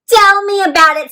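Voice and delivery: high, loud little letter complaining; the letter K sighs to the class, lightly voiced. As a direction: voice the letters fed up. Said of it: "said little K".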